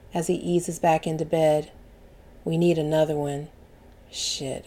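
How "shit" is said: breathy whispered swear under breath; 压低声音小声骂一句; whispered curse. Acted. Narrator's muttered aside.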